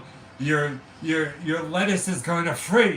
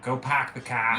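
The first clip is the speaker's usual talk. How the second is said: r-less park the car; Boston accent; 5 semitones lower than usual. Acted. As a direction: pahk the cah. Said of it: "Boston accent".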